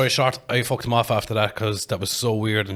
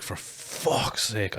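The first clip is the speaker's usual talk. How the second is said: muttered dismay; 7 dB quieter, much slower than usual. Retold or imitated. Disappointed host seeing an extra guest, muttered dismay. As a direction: imitate a let-down man grumbling under his breath. Disappointed host's reaction, retold.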